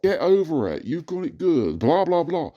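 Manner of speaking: high, sing-song mockery of advice; mocking quote. Mocking the people who tell him to get over it. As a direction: parrot their dismissive advice with scorn. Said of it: "every other problem I've got".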